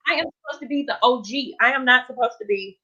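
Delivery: trying not to break down on stream; holding back tears, voice lifting high; fighting back tears. Real, not acted. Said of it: "I'm not gonna cry".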